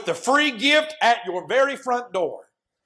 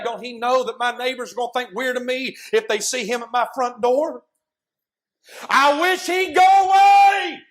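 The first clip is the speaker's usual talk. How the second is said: grumbling neighbor; 3 semitones higher, 3 dB louder than usual. Acted. Isaac grumbling inside the house.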